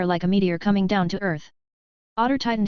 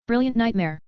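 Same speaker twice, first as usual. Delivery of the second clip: deadpan yet excited; 3 semitones higher than usual. A narrator's reading. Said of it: "She said in a deadpan, excited voice".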